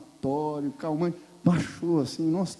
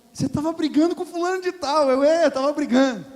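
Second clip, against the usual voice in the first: loud retold dialogue; 9 semitones higher, 11 dB louder than usual. Shower dialogue with wife, loud.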